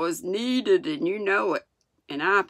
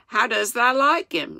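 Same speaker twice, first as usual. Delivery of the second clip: high, louder, eager question; excited; 6 semitones higher, 5 dB louder than usual. A narrator's reading. Martha asks Mary about the lad, excited. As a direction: ask it with rising excitement. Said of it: "she's excited".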